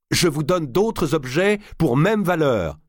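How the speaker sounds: high, slow, pressing plea; desperate bargaining. A narrator's reading. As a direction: raise the offer in a strained high voice. Archbishop desperately bargains for the document.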